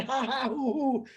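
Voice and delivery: spelled-out, put-on laugh; mock laughter. Shown as a demonstration. Host showing the crowd they're here to laugh, mock laughter. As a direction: play at laughing, syllable by syllable. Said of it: "We're laughing".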